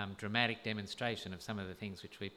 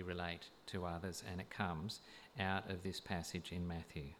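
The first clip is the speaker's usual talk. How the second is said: deliberate sermon delivery with long pauses; weighty, spaced-out exposition; measured preaching; slower than usual. Real, not acted. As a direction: set each phrase apart for the congregation. Preaches on the passage.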